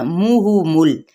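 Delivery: मुहुमुल slow, each short u said with rounded lips; slow careful मुहुमुल, lips rounded on every u. Shown as a demonstration. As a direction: recite मुहुमुल with round short u sounds, never o. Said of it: "गोल रखते हुए आपने अदा करना".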